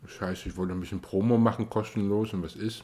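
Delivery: talking through a mouthful of cupcake; words round a bite of cupcake; mouth full. Real, not acted. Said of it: "Mit vollem Mund". (mit vollem Mund gesprochen)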